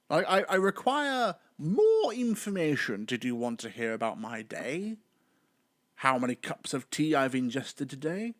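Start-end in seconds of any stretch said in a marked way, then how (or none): 0.1-3.0 mock robot. Mock robotic confusion at vague answer.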